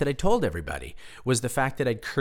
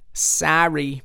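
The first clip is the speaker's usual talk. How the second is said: higher mock-Scottish apology; Scottish accent; 4 semitones higher, 4 dB louder than usual. Apologizing for his bad accent, in mock Scottish. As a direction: say sorry in a put-on Scottish accent. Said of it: "This is just your generic Scot".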